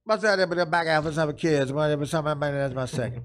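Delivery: mild mock garbled interview answer; Mickey Rivers impression. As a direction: slur it like Mickey Rivers, barely coherent. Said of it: "exactly what happened".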